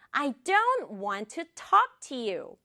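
slow, carefully separated words; slow model. Shown as a demonstration. Teacher modelling the sentence, slow and clear. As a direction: say "I don't want to talk to you" slowly and clearly.

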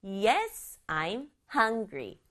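slow answer, "Yes" and "hungry" each given weight; stress on YES and HUNGRY. Shown as a demonstration. Teacher models the child's answer, stressing "Yes" and "hungry". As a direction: pick out "Yes" and "hungry", falling at the end. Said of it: "중요하죠".

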